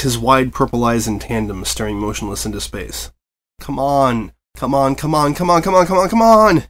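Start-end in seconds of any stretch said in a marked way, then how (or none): 3.6-6.6 pleading that climbs higher and louder; rising into a loud desperate plea; begging, building. A narrator's reading. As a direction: beg faster and more desperate with each repeat. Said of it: "Press Pass begged".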